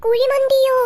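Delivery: loud, high startled question; shocked surprise. Acted. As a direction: gasp the word out in disbelief. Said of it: "ഇത്രയ്ക്കങ്ങ് expression ഇട്ട് ചാവാന്". (ഞെട്ടലോടെ ഉച്ചത്തിൽ ചോദിക്കുന്നു)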